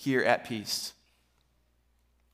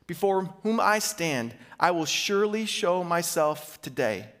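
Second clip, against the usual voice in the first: scripture reading. Acted. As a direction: wind the passage down slowly. Reads scripture, closing passage.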